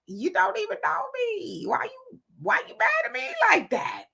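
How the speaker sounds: high-pitched, softened mock protest; squeaky acted-out objection; retold protest. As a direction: lift it way up, imitating a baffled complaint. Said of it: "And I'm like".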